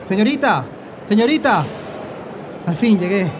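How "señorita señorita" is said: louder call to get attention. Acted. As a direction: call the clerk across the counter. Passenger runs up calling out.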